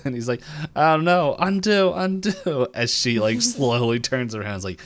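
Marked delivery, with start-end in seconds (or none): 0.8-2.7 high, loud frantic pleading; hammed-up desperate wail, pitched way up; mock panic. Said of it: "like, freaking out".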